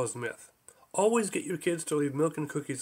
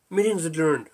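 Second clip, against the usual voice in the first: louder, firm gavel announcement; decisive announcement; 5 dB louder than usual. Acted. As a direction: declare it firmly and with finality. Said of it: "he announced decisively".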